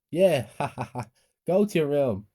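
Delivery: loud high taunting laugh; mocking laugh. A narrator's reading. Sisters taunting their brother sent to his room, laughing. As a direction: jeer at the punished brother. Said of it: "Annie and Mary laughed".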